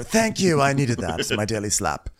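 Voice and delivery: lightly voiced thanks after a slap; mock grateful. Slapped woman thanking her, lightly voiced mock gratitude. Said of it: "Rocio just comes in and slaps her".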